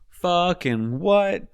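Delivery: high, shocked yelp; startled yelp. Acted. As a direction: blurt it out, stunned. Character startled by dad.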